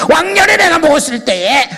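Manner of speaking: high, loud mock drinker's boast; excited boasting. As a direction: imitate someone bragging loudly about drinking days. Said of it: "성경보다 더 신나게 얘기를".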